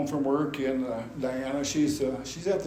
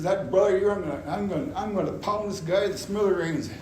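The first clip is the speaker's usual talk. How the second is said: retold angry threat; 4 semitones higher than usual. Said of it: "I'm just going off the deep end".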